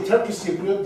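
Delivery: Turkish said stronger and rising, Cypriot lighter; stress on Turkish. Shown as a demonstration. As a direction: hit the word Turkish in Turkish Cypriot. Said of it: "is much more on the Turkish".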